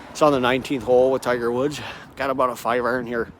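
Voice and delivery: a hint of a low quick golf pro; David Flaherty impression. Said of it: "He sounds like this".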